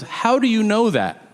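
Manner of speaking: acted indignant question; challenging disbelief. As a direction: imitate someone demanding proof. Acted sceptic challenges his claim.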